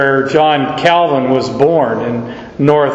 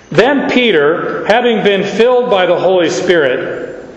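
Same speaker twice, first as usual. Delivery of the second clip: too slow; 3 semitones higher than usual. Shown as a demonstration. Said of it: "oh, you are so slow".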